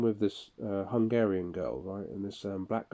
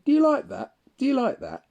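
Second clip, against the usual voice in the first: much higher, loud shouting taunt; furious yell; 7 dB louder than usual. Retold or imitated. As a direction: yell it in his face, furious. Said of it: "lost my temper then".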